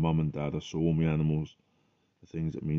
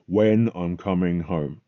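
emotional plea; 4 dB louder than usual. Retold or imitated. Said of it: "I got very emotional about it".

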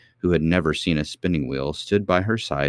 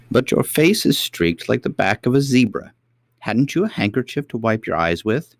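lightly voiced gentle old queen; old lady voice; 6 semitones higher, 4 dB louder than usual. A narrator's reading.

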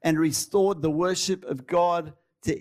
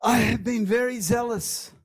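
Elijah's lament, higher and higher, ending in a cry; anguished Elijah; 6 semitones higher than usual. Acted. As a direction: plead like a hunted prophet. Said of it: "He says".

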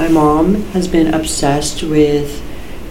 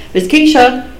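sudden high delighted cry; excited shout; 9 semitones higher, 6 dB louder than usual. Real, not acted. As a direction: burst out her name. Excited outburst about a singer.

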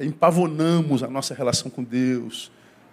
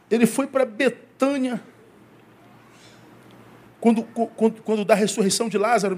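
raised, emphatic pulpit voice, slowed for key words; fervent sermon delivery; preaching; 5 semitones higher than usual. Acted. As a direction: preach it to the congregation with conviction. Preaching at full force.

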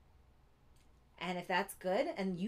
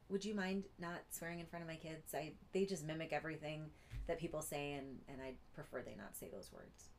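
gentle, softer request; calm and loving; 2 semitones lower, 5 dB quieter than usual. Shown as a demonstration. Mom asking a friend not to swear near her kids, soft and loving. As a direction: ask kindly, from a place of love. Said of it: "from this place of calm and this place of love".

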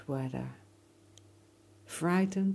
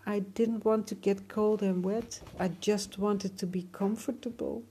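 miserable voice; 4 semitones higher than usual. Acted. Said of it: "in a miserable voice".

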